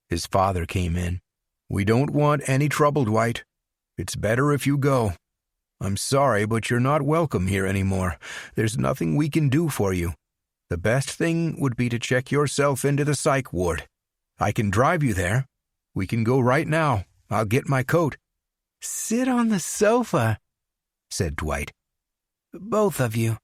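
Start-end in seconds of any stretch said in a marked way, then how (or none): 1.7-18.2 a hint of a worried father, pleading; lightly voiced father. Father pleads with armed son. 18.8-23.4 slow, higher menacing command; lightly voiced Dwight. Dwight orders parents at gunpoint.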